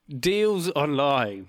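drawn-out, mocking slogan; sarcastic. Shown as a demonstration. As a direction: stretch it out slowly with heavy sarcasm. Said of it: "with sarcasm".

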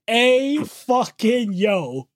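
drawn-out, very slow awed exclaim; stunned. Real, not acted. Podcaster reacting to the twist, slow and stunned. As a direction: stretch it out in disbelief.

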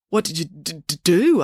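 stuttering on "d-, d-, do"; stammering. Acted. Joe asks Loretta with a stammer. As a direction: catch on the d before "do". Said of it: "without stammering".

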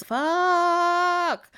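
long, high mock-panic cry; freaking out. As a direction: stretch the curse out in comic dread. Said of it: "So she's freaking out".

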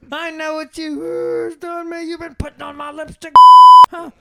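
high mocking scolding mom voice; high-pitched mocking mom, with cackles. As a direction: ham up a nasty scolding mother. Parodying the mom.

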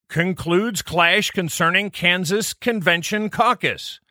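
each word spelled out slowly; slowed down. Shown as a demonstration. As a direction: take it slow and clear. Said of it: "let's slow this down a bit".

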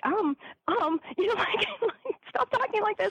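high, laughing through the words; can't get it out for giggling. Real, not acted. Retelling the weird meeting to the host, high laughing.

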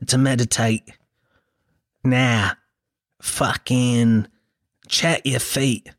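slow, hushed mock meditation guide; lightly voiced soothing app narrator; meditation app guy. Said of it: "he'd be like this".

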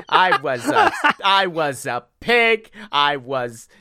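hammed-up comedian cadence; John Mulaney. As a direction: shift it up and stretch out the words. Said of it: "I am John Mulaney".

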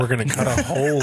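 cracking voice. Real, not acted. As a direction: voice breaking like puberty. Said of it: "am I going through puberty? I'm cracking voice".

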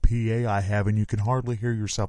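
mock a stubborn sound man's protest; arguing sound guy. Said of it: "sound guys will sit there and argue back".

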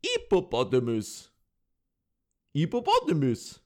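mock French-accented attempt at American. Host mimics French girl "nailing" American, French accent. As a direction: repeat it in a put-on French accent. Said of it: "go down to the U S and they go".

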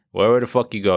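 ordinary talk, nothing marked

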